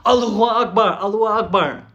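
half-acted shout like attackers storming in; mock battle cry. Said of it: "yelling at the top of their lungs".

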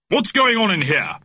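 high, indignant demand from an authority; stern voice. A narrator's reading. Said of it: "came a stern voice from the doorway".

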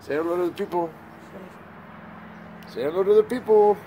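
put-on baby-talk to a dog, high and bright; high coaxing pet voice. Shown as a demonstration. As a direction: coo at the puppy, voice lifted high. Coaxing dog to greet camera.

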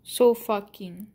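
So fucking joined up, still slowly; run together. Real, not acted. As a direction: say So fucking slowly as one phrase. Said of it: "You have to, like, say it fast".

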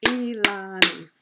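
Elanis in three loud beats, E-la-nis; syllable by syllable. Shown as a demonstration. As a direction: punch out each syllable of Elanis. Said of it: "how many parts a word can be broken into".

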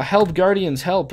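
mock cry for help. Mock call to game guardians for help.

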